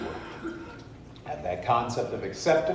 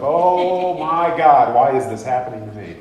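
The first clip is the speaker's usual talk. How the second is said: mock self-pity; 3 semitones higher, 9 dB louder than usual. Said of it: "in that situation of".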